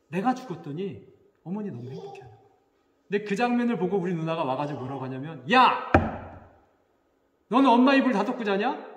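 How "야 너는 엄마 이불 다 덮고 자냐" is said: loud, high scolding shout; acted angry yell. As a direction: explode at a sibling, imitating an outraged sister. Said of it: "화를 내는 거예요".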